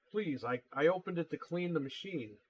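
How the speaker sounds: mildly nervous plea with a false start; imitated nervous customer. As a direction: imitate a flustered customer excusing himself. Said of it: "started getting all nervous".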